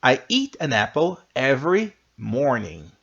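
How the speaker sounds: clear, careful classroom model read; model sentence. Shown as a demonstration. Teacher reading example sentence aloud to the class. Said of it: "E aqui está o exemplo".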